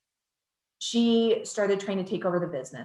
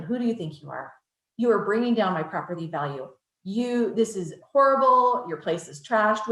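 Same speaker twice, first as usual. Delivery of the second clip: a mild mock yell, slowing and rising on "this is horrible"; half-acting an angry neighbor chewing him out; retold neighbor yelling. Neighbor berating the husband on the phone, mild mock yell. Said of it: "she can hear the neighbor screaming".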